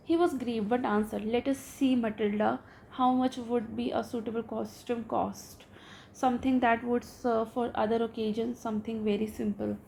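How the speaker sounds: slow, careful reading aloud of a story. A narrator's reading. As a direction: read each English word out slowly for the class. Reads the English story slowly.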